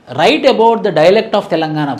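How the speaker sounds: slow, spaced dictation for notes. Acted. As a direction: dictate each phrase slowly so students can write. Dictates a sample exam question. (నెమ్మదిగా notes చెప్పడం)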